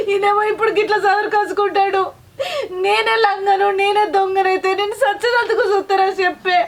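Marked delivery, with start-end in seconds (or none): 2.8-6.6 bitter half-laugh breaking into tears; wife breaking down as she accuses her husband, crying. Acted. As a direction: laugh through the tears at the injustice.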